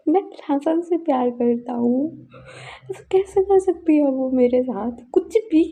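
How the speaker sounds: mildly acted weeping, pleading and hurt; retold crying. Son protests to his absent mother, in mild mock tears. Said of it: "ऐसा बोल के वो रो रहा था".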